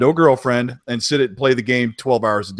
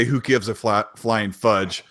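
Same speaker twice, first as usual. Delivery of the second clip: mock dismissive; 4 semitones lower, 3 dB quieter, slower than usual. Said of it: "Way to keep it P G".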